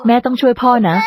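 put-on tearful, pleading child's cry; child crying to mother for help; crying plea. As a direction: beg through tears to save Dad. Child begs mother to save father.

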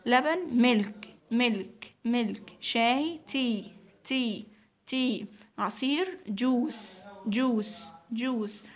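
slow, emphatic word-by-word vocabulary drill; teacher drill voice. Shown as a demonstration. Teacher drilling food words for young pupils, slow and emphatic. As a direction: drill each word so children echo it.

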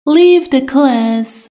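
slow, each word laid out clearly; slow model sentence. Shown as a demonstration. Teacher to Persian learners, slow and clear. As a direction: spell it out slowly for learners. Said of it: "teacher repeats the model sentence".

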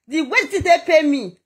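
laughing through the repeat; bitter laugh while repeating it. Real, not acted. Woman telling her followers how she was treated, laughing. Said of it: "repeats it the second time laughing".

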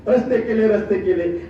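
low, repetitive parroting of a boast; mocking quoted boast. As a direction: parrot the rival's claim dismissively. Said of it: "अरे, तुम्ही काय रस्ते केले?".

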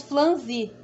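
"flanzi" with L replacing the R; "flanzi", said fl- instead of fr-; mispronounced franzir. Retold or imitated. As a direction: copy the youtuber's slip, L in "flanzi". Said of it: "que ela fala flanzi".

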